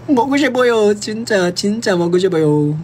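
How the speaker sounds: really yearning for it; eager craving. Real, not acted. Craving Korean food, repeated higher. (mataas at sabik na pananabik)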